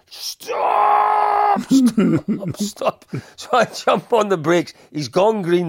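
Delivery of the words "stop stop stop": high, loud panicked yell; screaming stop. Retold or imitated. Passenger yelling for the driver to stop, panicked shout. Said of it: "he was screaming".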